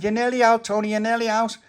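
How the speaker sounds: high, loud urging; urgent encouragement. Acted. Pauline to Tony as she pulls, urgent encouragement. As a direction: cheer him on mid-pull.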